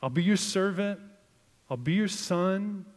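high, loud pleading to a bully; mock begging weakling. King Ahaz to the Assyrian king, mock high begging. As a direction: beg like a small kid handing over lunch money. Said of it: "It's like".

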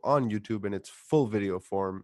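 smooth announcer read; podcast outro. Acted. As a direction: read it like a radio sign-off.

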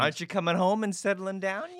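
high-pitched cartoon granny nagging; nudgy grandma. Grandma nudging grandson to settle down, high cartoony voice. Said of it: "little nudgy kind of things".

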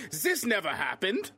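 slow, loud, high-pitched Putin outburst; an indignant Putin watching TV in his bunker, drawn out; mock Russian Putin. Co-host imagines Putin watching Stranger Things, mock outrage. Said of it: "and he's like".

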